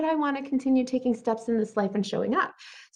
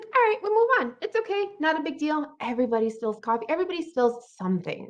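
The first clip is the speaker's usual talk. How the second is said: cheerful letting go; 6 semitones higher than usual. Pretend. Voicing her own upbeat self-talk, cheerful. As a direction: bounce through it upbeat. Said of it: "I'm just like".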